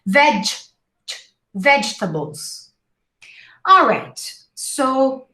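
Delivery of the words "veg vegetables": "vegetables" broken as vedge... vedge-tuh-bulz; imaginary D. Shown as a demonstration. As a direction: put a d before the g in "vegetables". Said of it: "imaginary D before pronouncing the G".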